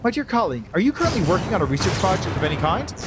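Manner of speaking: excited high voice. Acted.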